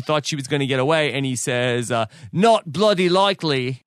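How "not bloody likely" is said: lightly imitated bad Cockney accent; retold line with a hint of Cockney; the speaker's Cockney accent. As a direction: have a mild go at mock Cockney. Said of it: "That's my Cockney accent".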